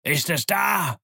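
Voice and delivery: high roared question; demanding, high-pitched yell; Pew. A narrator's reading. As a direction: bellow it impatiently up at the window. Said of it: "brüllte Pew".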